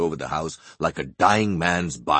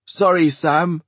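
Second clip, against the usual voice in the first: Archie, apologetic; 10 semitones higher, 6 dB louder, slower than usual. Acted. Archie in the cupboard.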